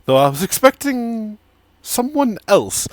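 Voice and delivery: suave, measured stranger rising on the last words; smooth and amused, sizing them up; tiefling stranger. Acted. GM voices the tiefling NPC.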